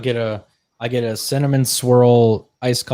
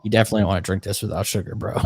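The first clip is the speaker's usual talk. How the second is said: fast mock worker; 4 semitones lower, faster than usual. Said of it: "you hear the people that work there".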